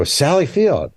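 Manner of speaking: called out high across a parking lot; calling out. Retold or imitated. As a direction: call her name across the lot. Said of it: "I just yelled out".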